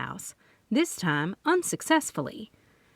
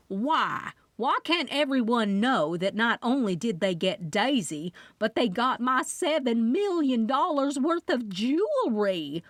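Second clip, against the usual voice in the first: indignant; 4 semitones higher than usual. Acted. Loretta into the phone.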